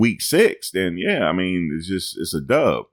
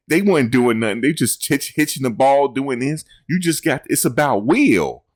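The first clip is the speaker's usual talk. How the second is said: high, amused mock coach voice; laughing mock quote; imitating a coach; 7 semitones higher than usual. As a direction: mimic the coach's line while cracking up. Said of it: "He said".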